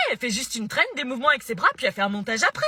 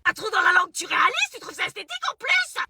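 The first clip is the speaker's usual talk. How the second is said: shouting mother; 3 semitones higher than usual. Acted. Mother scolds over tongue piercing.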